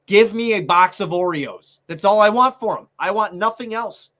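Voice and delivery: fed-up outburst. Real, not acted. Podcast host venting loudly at his team. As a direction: blow up about the player, really fed up. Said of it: "I'm so fucking mad".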